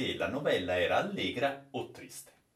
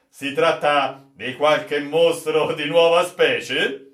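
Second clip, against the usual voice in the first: eager question; 5 semitones higher, 10 dB louder, slower than usual. Acted. Captain asks eagerly.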